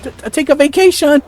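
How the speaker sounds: a hint of comic panic, shouted; panicked yelp. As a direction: bolt from the room in a panic. Panicked flight from the court.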